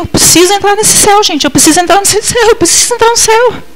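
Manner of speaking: pleading cry. Real, not acted. Preacher's pleading repeated cry.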